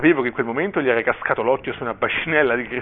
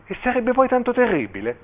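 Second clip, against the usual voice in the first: high-pitched, sustained questioning tune; incredulous question; 10 semitones higher than usual. A narrator's reading. Bishop querying the father's horror of a Christian son, incredulous. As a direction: lift the whole question high, challenging.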